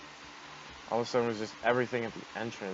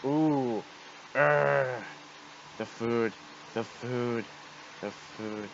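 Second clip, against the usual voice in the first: fading monster lament; much slower than usual. Acted. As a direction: moan it away into nothing. Monster fading while defeated.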